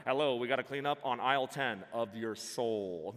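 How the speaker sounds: lightly mimicked store megaphone call; a playful mock PA announcement. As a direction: imitate a supermarket cleanup announcement over a megaphone. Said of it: "I'm gonna get the megaphone".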